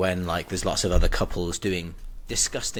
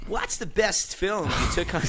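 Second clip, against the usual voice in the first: much higher, slow, sing-song Irish voice; crappy Irish accent; 10 semitones higher, slower than usual. Acted. Co-host reads listener's question in hammed-up Irish accent. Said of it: "You literally just did it".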